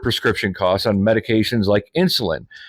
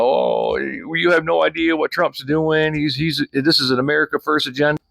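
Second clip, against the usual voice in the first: higher-pitched mocking imitation; Jen; 6 semitones higher than usual. Critic mimics a video maker defending Trump, higher mocking voice. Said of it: "this video where you're like".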